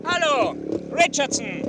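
loud high call across the road. Acted. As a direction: shout to him from a distance. Inspector calling to car ahead.

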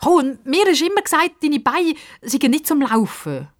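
high, lightly tickled exclamation; amused, high-pitched surprise. A narrator's reading. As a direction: tease on the edge of a laugh. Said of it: "Sie muss fast ein bisschen lachen".

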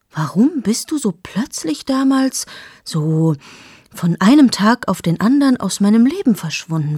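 a lightly voiced man's pleading question; the man asking. Man questions her about vanishing, lightly voiced. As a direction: ask him why she vanished, hurt.

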